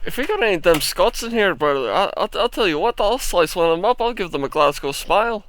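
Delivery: loud mock Scottish threat; playful Glasgow hard-man accent. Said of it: "I can do Scottish".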